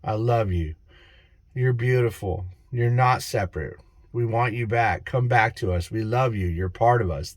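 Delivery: low, gently paused words of acceptance; tender reassurance. Acted. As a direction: lightly voice a heartfelt apology and welcome back. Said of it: "they want you to say".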